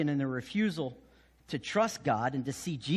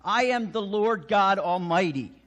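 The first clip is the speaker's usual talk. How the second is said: louder, proclaiming "I am"; God proclaiming to the universe, louder and solemn; 3 semitones higher, 6 dB louder than usual. Retold or imitated. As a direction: boom it out like God declaring himself. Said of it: "God speaks about himself as saying".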